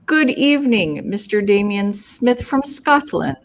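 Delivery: grand, mock-formal welcome; a touch of put-on fanciness; fancy greeting. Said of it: "I was just trying to be fancy".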